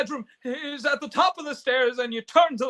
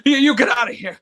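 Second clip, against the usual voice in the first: angry shout; 3 semitones lower, 7 dB louder than usual. Acted. George yells at Bert.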